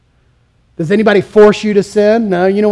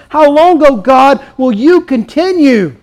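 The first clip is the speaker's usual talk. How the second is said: tearful lament; 4 semitones higher than usual. Acted. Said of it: "With tears in their eyes".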